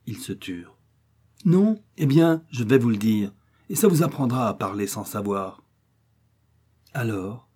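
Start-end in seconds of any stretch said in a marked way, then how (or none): 1.4-5.6 scolding. Acted. Old woman scolding the family.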